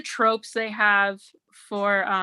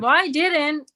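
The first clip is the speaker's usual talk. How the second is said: mock news voice; 5 semitones higher than usual. Shown as a demonstration. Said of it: "what if we talk like this".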